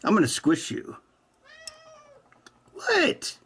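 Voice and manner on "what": 1 high cat-talk. Real, not acted.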